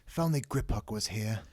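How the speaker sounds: mildly wistful wish; a touch of mournful longing; sad. A narrator's reading. Harry missing the goblin, mildly sad. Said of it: "Harry said sadly".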